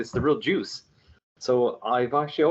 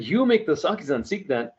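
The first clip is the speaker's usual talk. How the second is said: imitating an amazed uncle, a bit higher; surprised; 4 semitones higher than usual. Uncle surprised to meet the maker of the Sakis, mock amazed question. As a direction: echo it back in disbelief.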